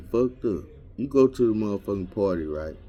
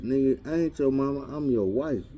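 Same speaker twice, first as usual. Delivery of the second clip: higher-pitched, indignant woman's retort; mock indignant correction; 5 semitones higher than usual. Wife answering the man who called her mama, mock indignant. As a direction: act out setting him straight.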